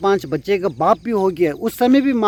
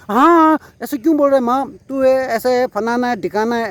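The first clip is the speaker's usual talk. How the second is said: higher-pitched mock scolding by a fed-up mother; angry mother; 5 semitones higher than usual. Mother, hurt by her son's brush-off, mock angry scolding. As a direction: snap back at the lazy son, hammed-up. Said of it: "वो गुस्सा हो जाएगा".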